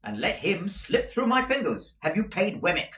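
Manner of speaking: brisk, imperious barrister; stern lawyer. Acted. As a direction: Jaggers laying down the law. Jaggers dismissing the women.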